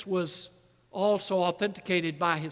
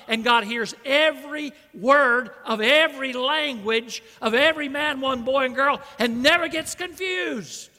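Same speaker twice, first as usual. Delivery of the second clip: higher, louder, building emphasis on every word; fervent preaching; 4 semitones higher, 4 dB louder than usual. Real, not acted. Preacher marvelling that God hears every language, fervent.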